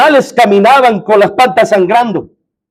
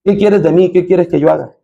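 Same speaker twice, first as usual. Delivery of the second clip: lower, subdued humble asking; submissive question; 4 semitones lower than usual. Acted. Preacher models the correct question to the Lord, low submissive asking. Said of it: "La pregunta es".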